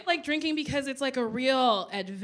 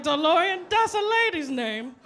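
put-on higher, louder drunken delight; drunk excitement; 4 semitones higher, 4 dB louder than usual. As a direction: gush like a tipsy fangirl. Drunk self discovering name.

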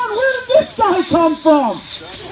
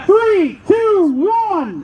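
drawn-out countdown call; starter's countdown; much slower than usual. Real, not acted. Starter counting woodchoppers in, drawn-out countdown. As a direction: call each number out long and evenly.

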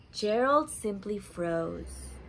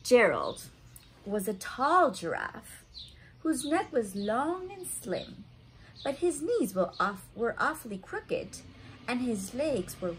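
lively, sing-song storybook reading; reading to children. A narrator's reading. A parent reading a picture book to kids, sing-song. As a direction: read it out warmly for little listeners.

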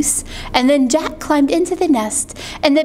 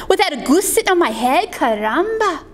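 higher exclaiming chicken; chicken's cry; 4 semitones higher, faster than usual. Acted. Chicken hears of an empty nest, higher cry. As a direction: exclaim with raised pitch. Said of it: "cried the chicken".

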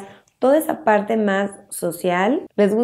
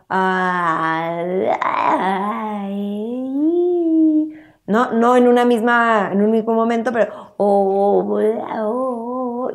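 put-on drawn-out babyish vowels, slow; baby vowel sounds; slower than usual. Shown as a demonstration. Babbling baby making first vowels, slow drawn-out. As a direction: stretch out baby syllables. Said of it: "Apareciendo sonidos de sílabas".

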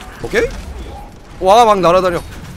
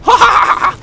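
high loud burst of laughing; loud laughter; 12 semitones higher, 7 dB louder, much slower than usual. Real, not acted. (크게 웃기)

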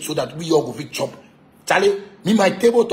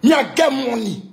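shouted boast, much higher and louder; boastful shout; 7 semitones higher, 4 dB louder than usual. Real, not acted. Ranting at a rival, a loud boastful shout. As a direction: yell it out to rub it in.

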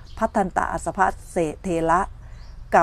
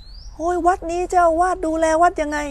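higher, slower exasperated groan at the temple; high, drawn-out imitation of a fed-up complainer; mock exasperated complaint; 9 semitones higher, slower than usual. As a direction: whine like a visitor who lost their shoes. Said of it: "รองเท้าคุณหาย".

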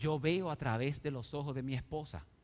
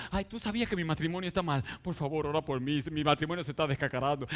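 whining wife; faster than usual. Retold or imitated. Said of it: "le dice".

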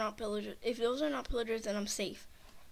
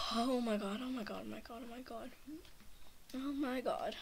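fading murmur; 5 dB quieter than usual. Real, not acted. Fading after fright.

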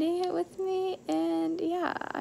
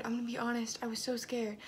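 whispered confession; 3 semitones lower, 9 dB quieter, faster than usual. Real, not acted. Confessing a fear to viewers.

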